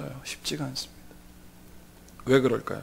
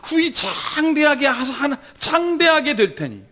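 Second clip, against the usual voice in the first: higher, slow drawn-out taunt; sneering; 5 semitones higher, 3 dB louder, slower than usual. Acted. Job's friend promising future greatness, sarcastic. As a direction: stretch the promise out mockingly. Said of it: "이거는 비아냥거리는 말이에요".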